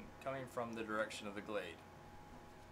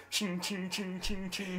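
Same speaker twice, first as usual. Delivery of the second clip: spur jingle; 6 semitones higher than usual. Retold or imitated. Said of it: "you hear the".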